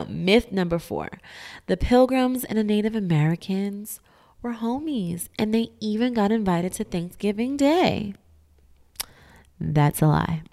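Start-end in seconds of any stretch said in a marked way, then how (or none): 1.7-8.1 mocking high voice. Mocking myth claim.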